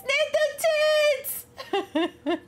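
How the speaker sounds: excited catchphrase. Real, not acted. Repeats catchphrase higher.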